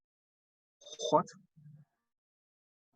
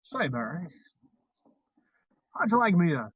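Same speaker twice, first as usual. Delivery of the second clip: Jimmy Stewart impression; 3 dB louder than usual. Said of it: "your Jimmy Stewart impression".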